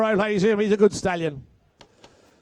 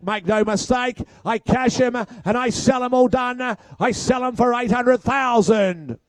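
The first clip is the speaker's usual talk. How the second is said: auctioneer's call; 3 semitones higher than usual. Real, not acted. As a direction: drive the bidding home to the hammer. Auctioneer calling final bids.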